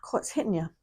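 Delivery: hushed, emotional whisper; real overcome murmur; hit in the feels. Real, not acted. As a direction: whisper it as the feeling hits. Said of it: "Hitting me right in the feels".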